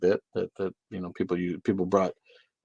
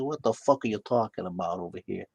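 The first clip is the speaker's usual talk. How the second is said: lightly voiced tough-guy movie impression; mock confrontational wiseguy; Joe Pesci; 3 dB quieter than usual. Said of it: "that's my Joe Pesci impression".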